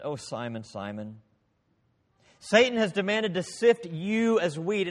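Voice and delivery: Jesus tenderly warning his disciple; tender, soft Jesus. Acted. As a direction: speak to Simon gently, like a friend. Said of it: "In great tenderness".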